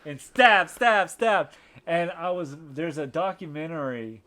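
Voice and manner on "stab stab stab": loud, punched words falling like blows; emphatic stabbing. Retold or imitated. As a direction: act out each stab with a higher, louder hit.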